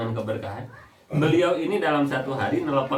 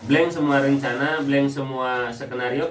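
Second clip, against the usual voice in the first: slow, weighted stress on "Blank" each time; preacher dwelling on "blank semua"; emphatic blank; slower than usual. Real, not acted. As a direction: lean hard on "blank", slowly. Preacher hammers the word blank.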